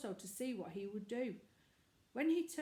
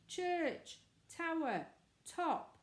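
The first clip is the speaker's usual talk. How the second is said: high, louder mock-deep call; deep slow call; 9 semitones higher, 4 dB louder, much slower than usual. A narrator's reading. Boy answering from the tower, mock deep and loud. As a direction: boom each word out slowly. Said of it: "in his deepest voice, very slow and loud".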